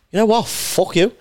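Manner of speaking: comic finally snapping at the crowd, mock outburst; retold outburst. Comic breaking on stage, retold.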